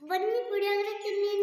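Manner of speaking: calling to invite. Pretend. Child calls an absent uncle to eat puliyogare, inviting. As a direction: call someone over to eat, slowing at the end. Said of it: "ಕರಿ ಅವ್ರನ್ನ".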